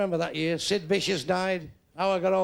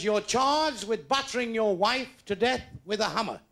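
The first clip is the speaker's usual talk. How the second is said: formal judge; 5 semitones higher, slower than usual. Retold or imitated. Judge reads the charge.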